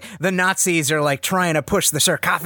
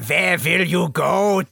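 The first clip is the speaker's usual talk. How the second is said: put-on Red Skull accent; 3 semitones higher, slower than usual. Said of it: "Ving W's and Wing V's".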